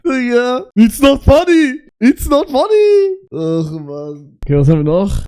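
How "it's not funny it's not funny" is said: laughing. Real, not acted. Laughing denial.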